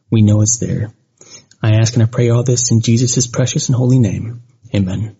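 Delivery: earnest spoken prayer. Acted. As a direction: pray reverently to the Lord. Leads a prayer for victims.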